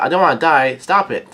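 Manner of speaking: half-hearted yell rising on the last words; mild mock yell. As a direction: imitate a cry to stop, without full volume. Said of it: "She also yells out".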